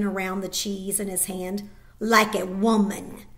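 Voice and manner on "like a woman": contemptuous. Acted. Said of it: "he added with contempt".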